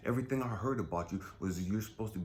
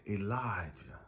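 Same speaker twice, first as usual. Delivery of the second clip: God speaking gently; 2 semitones lower, slower than usual. Pretend. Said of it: "I can hear God say".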